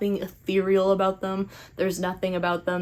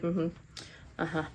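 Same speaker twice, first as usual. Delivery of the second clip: uncaring; 10 dB quieter than usual. Retold or imitated. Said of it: "kinda just stopped caring".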